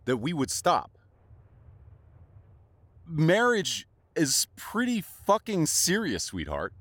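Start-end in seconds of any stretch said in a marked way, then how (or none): 3.1-6.7 twist the knife; biting sarcasm; sarcastic fury. Acted. Sarcastic jab at lover.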